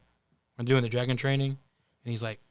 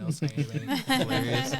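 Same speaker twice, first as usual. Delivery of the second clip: real laughter through the words; amused, words breaking into laughs; laughing; 4 semitones higher, 4 dB louder than usual. Real, not acted. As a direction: crack up while talking. Amused by retold Viking line.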